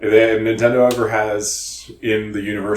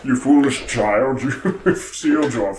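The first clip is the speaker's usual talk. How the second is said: cold rasping evil emperor; 3 semitones higher, 5 dB louder than usual. Pretend. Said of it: "he looks so menacing".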